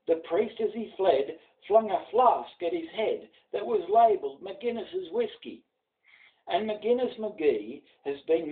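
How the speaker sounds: rhythmic bush ballad read aloud; a grandfather reciting a ballad for his grandson; poem recitation. A narrator's reading. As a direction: recite with a lilting storyteller's swing.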